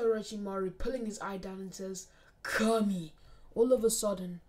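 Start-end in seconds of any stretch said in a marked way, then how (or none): 2.4-3.1 louder, drawn-out attack call; called-out technique. Acted. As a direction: call out the technique's name with force. Character calls out his technique.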